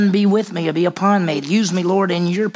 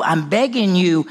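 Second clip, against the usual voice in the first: urgent plea. Retold or imitated. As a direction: press hard on begging. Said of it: "He said".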